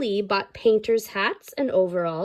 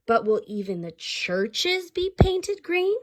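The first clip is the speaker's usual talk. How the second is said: raised, slow Reverend; 8 semitones higher than usual. Acted. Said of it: "said Reverend Flaherty".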